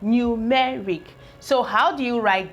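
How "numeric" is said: "numeric" said slowly and clearly, each syllable given its weight; slow model word. Shown as a demonstration. Teacher to pupils, modelling the new word slowly. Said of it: "The next word I would love to try now is numeric".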